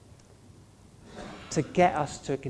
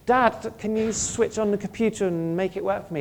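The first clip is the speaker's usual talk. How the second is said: put-on child asking dad; 7 semitones higher, 4 dB louder than usual. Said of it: "they're always expressing that dependence".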